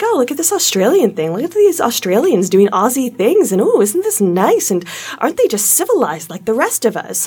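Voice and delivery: mock patronizing praise. Mimicking international audiences admiring Australia, mock patronizing. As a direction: mimic foreigners fawning over cute Aussies. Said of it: "be like".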